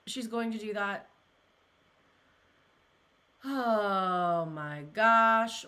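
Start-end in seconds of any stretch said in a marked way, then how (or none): 3.4-5.7 slow sad sigh. Real, not acted. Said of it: "really sad to hear this".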